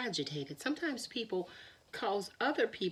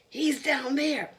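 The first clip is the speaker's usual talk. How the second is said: slow high rabbit; 6 semitones higher, 6 dB louder, slower than usual. Acted. Rabbit points at the well.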